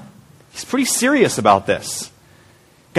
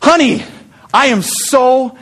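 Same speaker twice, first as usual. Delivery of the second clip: husband bringing flowers to his tired wife, doting and tender; sweet loving husband; 4 semitones higher than usual. Retold or imitated. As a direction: gush it like a smitten husband. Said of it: "And, and I say".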